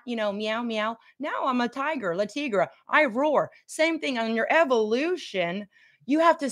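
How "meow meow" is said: soft mock meow; quiet playful kitty meow; cat meow. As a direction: purr it like a little house cat. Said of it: "I started as a cat".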